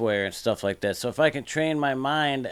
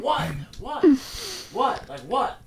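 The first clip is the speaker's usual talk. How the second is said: light, higher curious whats; gentle what; 11 semitones higher than usual. Shown as a demonstration. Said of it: "I was like".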